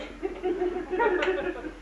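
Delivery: high, soft chuckle; laugh. Acted. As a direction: chuckle at one's own joke. Laughs after refusing to take him.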